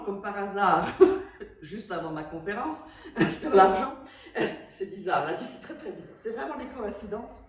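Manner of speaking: laughing at an ironic coincidence; amused laughing. Real, not acted. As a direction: talk through bursts of laughter. Amused by coincidence before her talk.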